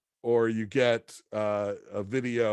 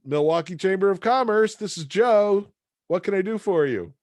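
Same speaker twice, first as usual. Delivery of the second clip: phone receptionist; 8 semitones higher, 5 dB louder than usual. Retold or imitated. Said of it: "somebody answered the phone and said".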